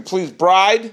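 projected host's delivery, spaced out; performing for the room, voice pushed out; projecting. Real, not acted. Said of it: "Why are you yelling?".

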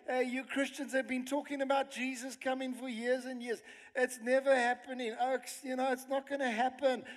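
lightly acted mockery; mocking scoffer. Preacher imitating scoffers who taunt Christians about Jesus' return, mildly mocking. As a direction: imitate a dismissive doubter, mildly. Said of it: "they mock and they speak like this".

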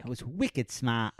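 mock Boston accent, slowed a little. Friend shows off Boston trip, mock Boston accent. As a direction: play up the Boston accent, lightly. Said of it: "You sound like a".

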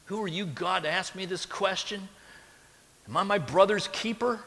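sarcastic, defiant question; mock defiance, lightly voiced. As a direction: throw the question back with sarcasm. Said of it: "Do you hear the sarcasm".

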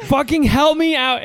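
retold angry caller, slowed down; mock angry outburst. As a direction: demand help through gritted teeth. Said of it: "I was so angry".

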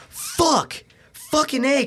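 high mock yell of pain. Coworker after a paper bag popped by his face, high mock yell. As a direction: squeal like your ears just got blasted. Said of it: "He was like".

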